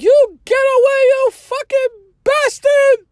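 high, loud screaming imitation of grandma; grandma's yell. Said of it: "just yelled".

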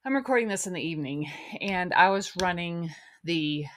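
breathless after the sprinklers; talking while catching breath. Real, not acted. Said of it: "I'm a little out of breath".

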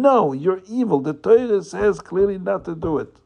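firm rebuke. Acted. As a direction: tell off the tempter firmly. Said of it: "You have to be very firm".

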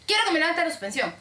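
mildly indignant retold demand; annoyed customer. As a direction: make a huffy demand as the caller. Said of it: "muy molesto el señor".

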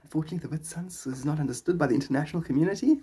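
lightly voiced pompous surf correspondent; mock presenter talk; surf reporter character. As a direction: correct them like a live TV reporter. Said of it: "he'd carry on with that character".

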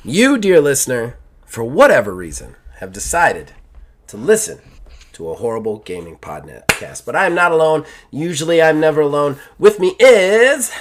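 host opening the Horrible Gaming podcast, showy announcer voice; podcast host intro. Acted. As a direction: greet the listener grandly.

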